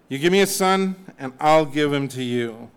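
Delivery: mock deal-making voice; a hint of Hannah bargaining with God; bargaining prayer. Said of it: "God, I'll make you a deal type of prayer".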